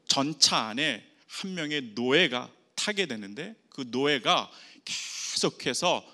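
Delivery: normal talking voice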